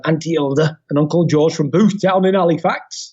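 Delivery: playful put-on Halifax accent; northern English accent. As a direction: slip into broad Yorkshire, as in Halifax. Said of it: "why I'm doing that accent".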